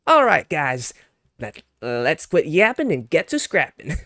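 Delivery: put-on high, loud Southern accent; rally the guys in a hammed-up Southern twang; Goku. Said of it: "he would have a southern accent".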